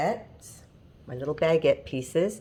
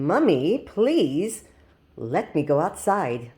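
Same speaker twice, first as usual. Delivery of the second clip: dog's fancy voice; slower than usual. Retold or imitated. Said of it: "That's the way he talks".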